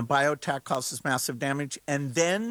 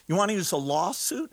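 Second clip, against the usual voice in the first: quick, higher incredulous question; real disbelief, pitched up and quick; 4 semitones higher, faster than usual. Real, not acted. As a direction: toss it out as an absurd idea. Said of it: "I almost can't keep a straight face".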